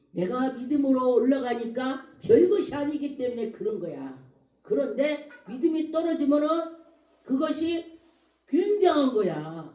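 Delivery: emphatic sermon delivery; preaching. Real, not acted. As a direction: press the point to a congregation. Preaches with raised voice.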